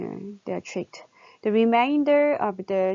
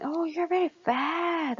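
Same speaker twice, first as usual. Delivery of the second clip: mock rude remark; 9 semitones higher than usual. Acting out a mean remark.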